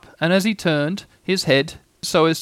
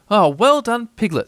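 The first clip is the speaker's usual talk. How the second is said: encouraging; 7 semitones higher, 3 dB louder than usual. A narrator's reading. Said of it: "at these encouraging words".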